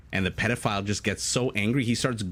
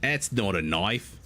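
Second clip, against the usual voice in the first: bad Australian accent; slower than usual. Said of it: "my Australian accent is terrible".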